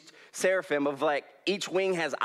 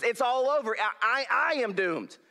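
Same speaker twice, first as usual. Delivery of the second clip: proclaimed despair; 7 semitones higher than usual. Retold or imitated. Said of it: "he proclaimed".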